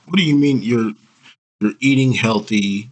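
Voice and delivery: what, you can't be serious; high, startled what do you mean; incredulous. Real, not acted. Incredulous at contradiction.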